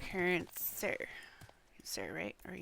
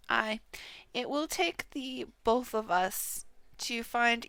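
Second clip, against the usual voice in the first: put-on louder, declaiming like a knight of old; in-character quest reading; 7 dB louder than usual. Streamer reading a knight's lines to a companion, loud and grand. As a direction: proclaim the plan to your companion.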